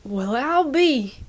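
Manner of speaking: slow country drawl; amazed old gentleman in a country accent. Acted. Older gentleman meets Marie, slow country accent. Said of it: "that was a freaking country accent".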